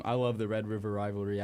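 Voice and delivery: "Red River rivalry" rolled out smoothly without tripping; smooth, easy delivery. Real, not acted. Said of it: "You said it so smooth".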